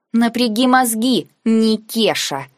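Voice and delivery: нараспев, медленно, выше, слащаво-насмешливо; пропеть, пародируя капризную девицу; передразнивая булочку. Retold or imitated. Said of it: "пропела я, пытаясь подражать тону булочки". (насмешливо передразнивает «Никеша» медленно и выше)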